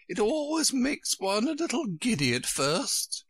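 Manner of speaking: high, kindly character voice; kindly queen. A narrator's reading. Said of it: "the Queen said kindly".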